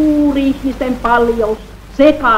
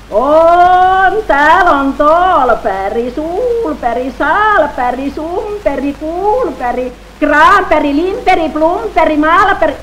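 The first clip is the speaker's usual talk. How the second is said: high, loud roll call from afar; high hollering list of names; 6 semitones higher, 3 dB louder, slower than usual. Acted. Voices calling out names.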